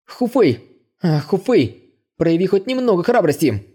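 pep talk to his own nerves; mock-brave self pep talk; self-encouragement. A narrator's reading. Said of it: "Пытался подбодрить он себя".

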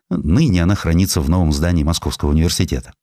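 usual speaking voice

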